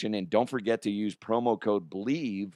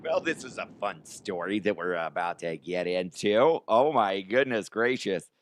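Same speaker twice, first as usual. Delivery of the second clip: put-on character voice. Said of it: "should I just do it in this voice".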